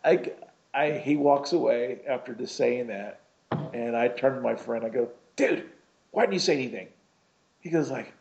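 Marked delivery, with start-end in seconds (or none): 5.4-6.9 high-pitched, exasperated complaint to a buddy; retold reproach. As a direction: playfully take a friend to task. Retold reproach to silent friend.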